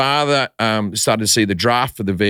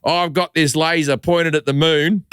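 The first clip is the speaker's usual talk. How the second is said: Aussie villain; 2 semitones higher than usual. Retold or imitated. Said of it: "a guy spin around in a chair and go".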